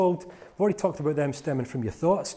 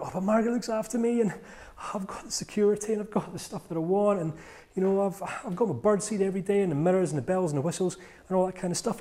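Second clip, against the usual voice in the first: lowered tone; 4 semitones higher than usual. Retold or imitated. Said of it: "He lowered his tone when he talked about Margaret".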